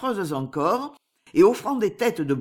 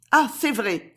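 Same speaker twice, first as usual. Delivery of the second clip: exclamation; 4 semitones higher than usual. Acted. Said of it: "s'écria Esther".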